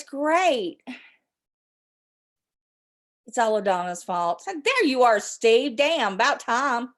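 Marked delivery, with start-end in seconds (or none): 4.5-5.8 mock outrage. Scolding a late chat viewer.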